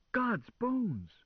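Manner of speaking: high, loud moaning car voice; a startled machine cries out. A narrator's reading. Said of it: "the car moaned".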